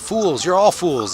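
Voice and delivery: high, drawn-out doomsayer cry; slow, high-pitched prophet's outburst; yelling. Acted. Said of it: "Then he s-, yells out".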